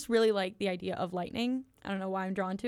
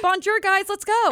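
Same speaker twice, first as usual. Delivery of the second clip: hammed-up Southern twang on "Bonjour", high and loud; a cheery Southern tourist mangling French; 11 semitones higher, 10 dB louder than usual. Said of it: "She's butchering it".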